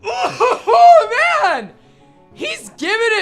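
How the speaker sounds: loud high laugh into words. Real, not acted. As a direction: burst out laughing. Laughing reaction.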